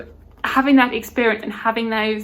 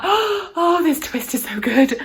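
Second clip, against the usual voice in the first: high gasping oh, then slow savoring praise; delighted surprise; 7 semitones higher, much slower than usual. Retold or imitated. Rereading reviewer reacting to a twist, thrilled gasp. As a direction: act out being floored by a twist.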